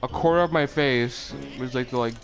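slurred numb speech; numb from the dentist. Real, not acted. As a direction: talk through a numb mouth. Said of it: "it's very numb right now".

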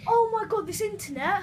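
loud, high exasperated shout at the lag; frustrated yell. Real, not acted. Young gamer yells at his laggy internet, loud and high. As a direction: blast the internet in real anger.

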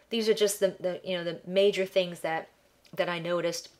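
stuffed-up nasal voice from allergies; nasally, blocked by ragweed allergies. Real, not acted. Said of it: "excuse my nasally voice".

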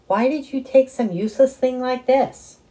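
high, loud baffled question; baffled dad. A narrator's reading. Dad baffled at his son over the map, high and loud. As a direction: ask in loud disbelief.

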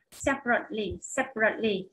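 "separately" stressed on SEP, falling after; teacher's model of "separately", SEP strongest; stress on first syllable. Shown as a demonstration. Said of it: "nó lại nhấn vào âm một".

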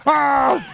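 sudden loud, high "ah"; loud mic yell. Shown as a demonstration. Streamer showing how he'll just yell, loud comic shout. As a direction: yell straight into the mic for effect. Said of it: "I just yell really loud in the mic".

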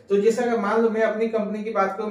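normal talking voice

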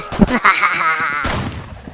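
short run of ha-ha-has, trailing off; mock menacing laugh. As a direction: laugh after a playful warning. Mock villain warning to nemesis.

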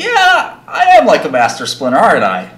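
loud, high, proudly clueless; fake naive eagerness. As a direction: agree cheerfully, missing the insult. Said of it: "doing this, like, fake".

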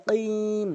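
কিম with a light k, drawn out; slow recitation. Shown as a demonstration. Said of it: "কাফ এনে উচ্চারণ করা যাবে না".

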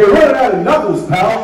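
wry comeback. Retold or imitated. Retorting in retold story.

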